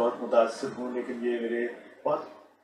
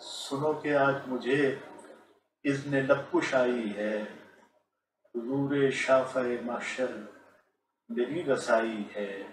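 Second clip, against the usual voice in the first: stately nazm recitation. Shown as a demonstration. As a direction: recite each line with dignity. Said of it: "میں آپ کی خدمت میں دو قطعات".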